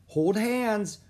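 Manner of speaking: high, loud instruction; urgent little girl's call; crying out. A narrator's reading. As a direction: cry it out before crossing. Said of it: "cried Olive".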